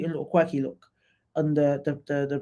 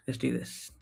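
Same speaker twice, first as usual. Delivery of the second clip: normal talking voice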